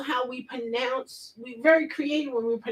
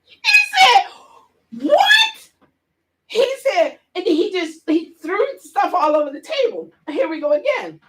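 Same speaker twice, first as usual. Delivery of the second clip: high, giggling words through laughter; laughing while talking; 8 semitones higher, 6 dB louder than usual. Real, not acted. Scene: telling the classroom story, still giggling high. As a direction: keep laughing as you tell it.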